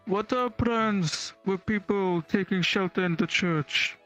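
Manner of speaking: ordinary talk, nothing marked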